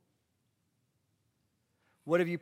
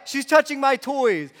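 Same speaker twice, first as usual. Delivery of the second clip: put-on high, slow whining four-year-old; mimicking a whiny toddler complaining; whiny kid voice; 10 semitones higher, 13 dB louder, slower than usual. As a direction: whine it like a cranky child. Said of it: "he gets whiny".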